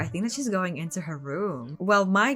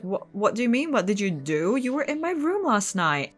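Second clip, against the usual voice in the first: angry accusation. Retold or imitated. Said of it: "she's like".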